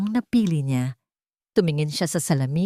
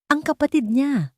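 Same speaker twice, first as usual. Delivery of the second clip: almost shouting; 9 semitones higher than usual. A narrator's reading. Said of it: "Halos pasigaw".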